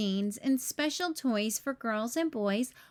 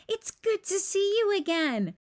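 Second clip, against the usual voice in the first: a higher, cheery Santa voice; jolly Santa; 7 semitones higher than usual. A narrator's reading. Santa welcomes Barney back home, jolly and cheerful. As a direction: sound pleased to see an old friend. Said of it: "laughed Santa".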